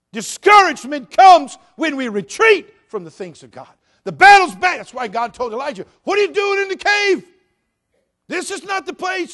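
loud, high, driving sermon; full-force preaching. Acted. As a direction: preach it hard.

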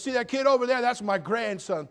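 loud, high boastful inmate voice; proud inmate. Retold or imitated. Pastor imitating a boastful inmate, loud and high. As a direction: crow like a proud old convict. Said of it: "He goes".

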